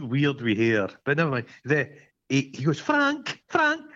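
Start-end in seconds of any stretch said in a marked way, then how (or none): 2.8-3.9 much higher, calling a name. Retold or imitated. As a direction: call his name down the street. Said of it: "calls out to him".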